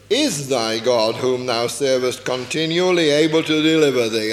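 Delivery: a hint of a worried king calling into the den; lamentable voice. King calls anxiously into the lions' den, lamenting. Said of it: "he said it in a lamentable voice".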